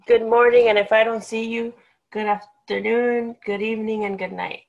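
cheery movie sign-off; sing-song farewell greeting; Truman Show quote. Retold or imitated. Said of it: "You know what that's from?".

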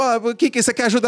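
mock impatience. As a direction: rattle it off like an impatient helper. Acting his own impatient question. (imitando a si mesmo impaciente, agudo e rápido)

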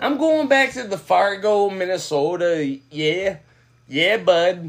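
put-on a light Minnesota accent, easygoing; lightly voiced Minnesota local; casual Minnesota accent heading home to Fargo. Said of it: "Is this your Yankee accent?".

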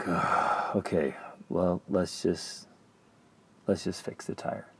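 hushed and breathy, half-whispered; tired near-whisper; resigned hush. Retold or imitated. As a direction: let it go, quietly giving in. Resigned quote, choosing calm.

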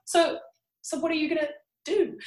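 high, pointed mock question; mocking challenge. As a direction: needle her with a high sarcastic question. Mocking the heroine's detachment.

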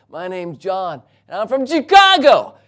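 odd introduction erupting into a high yell; yelling the place name. Retold or imitated. Stranger introducing himself, abruptly yelling out his home town. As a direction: build to a sudden shout on Chicago. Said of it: "he just yelled it out".

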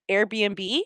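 lightly imitated French accent; mock French accent. French guys answering the mom, lightly mocked French accent. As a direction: ask it with a hint of French. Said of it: "they're in a French accent".

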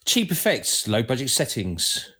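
poem reading. Shown as a demonstration. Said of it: "you need to read it like".

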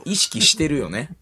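slow, knowing insinuation; 関明夫 impression. Pressing the denying partner, conspiracy-teller impression. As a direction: stretch it into a leading question. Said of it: "まだ関明夫やってた".

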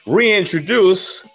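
stretched high and slow; drawn-out announcement. Acted. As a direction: draw it out like an announcer. Announcing the co-host.

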